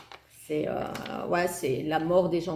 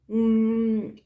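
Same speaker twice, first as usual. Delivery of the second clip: chewing hum; 4 semitones higher, 3 dB louder than usual. Real, not acted. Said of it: "c'est pas bien de parler la bouche pleine".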